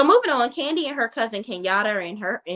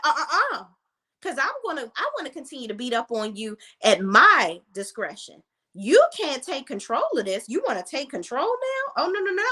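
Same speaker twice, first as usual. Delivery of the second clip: mock indignant mother; 4 semitones higher than usual. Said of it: "the mother don't like that".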